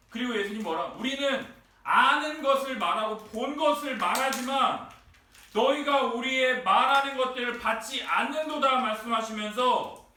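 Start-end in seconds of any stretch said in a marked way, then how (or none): 0.9-8.8 raised, forceful scripture quote; rebuke. Retold or imitated. Preacher quotes Jesus rebuking unbelievers, forceful reproach. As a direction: press each phrase as an acted reproach. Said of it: "지금 두 번째 꾸짖으시는 거고요".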